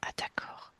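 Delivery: hushed whisper, hiding; whispering while hiding. Pretend. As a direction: whisper so nobody hears. Hiding from soldiers in prairie.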